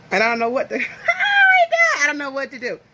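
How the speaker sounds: laughing nervously, breaking into a high laugh; nervous laughter. Real, not acted. A vlogger, nervous about eating rice with her hands, laughs. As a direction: giggle through it, unsure what to do. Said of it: "I'm nervous".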